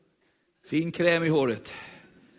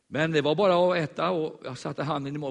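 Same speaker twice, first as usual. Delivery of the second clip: usual speaking voice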